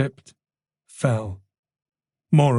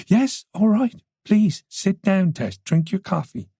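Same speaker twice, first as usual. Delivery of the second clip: calming; 8 semitones higher than usual. A narrator's reading. Detective calming panicking woman.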